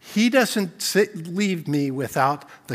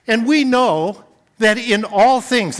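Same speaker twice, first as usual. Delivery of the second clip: ALL THINGS hit louder and higher; stress on all things; 5 semitones higher, 8 dB louder than usual. Shown as a demonstration. Pastor to church, stressing all things in the verse. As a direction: lean hard on all things. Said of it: "I put the emphasis on all things".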